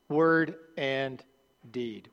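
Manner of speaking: "Word and" held up, then a pause before a dropped "deed"; word and deed stressed. Real, not acted. Pastor pointing the church to the key phrase, slowly stressed. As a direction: set "deed" apart after a beat and let it fall. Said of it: "I want you to notice that".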